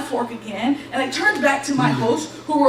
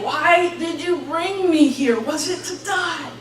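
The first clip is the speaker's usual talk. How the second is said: slow, drawn-out anguished plea, retold; crying out; 4 semitones higher, slower than usual. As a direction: imitate a desperate cry to God. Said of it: "I remember crying out to God".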